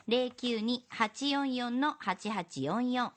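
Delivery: slow repeat of the number; dictating repeat. Acted. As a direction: repeat the number slowly, digit by digit. メモしてくださいね.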